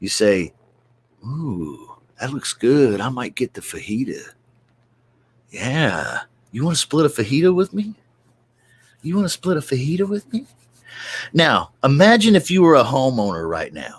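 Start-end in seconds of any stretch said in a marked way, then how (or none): 1.2-10.5 said in a lowered tone. Telling listeners how to speak to their lunch dates, in a lower tone. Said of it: "you say this in a lower tone".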